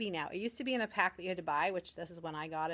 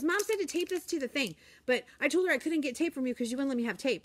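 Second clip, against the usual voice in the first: put-on very high, louder little-girl explaining; imitating a chatty child; 6 semitones higher, 6 dB louder than usual. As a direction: rattle it off like a first-grader tattling. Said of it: "She goes".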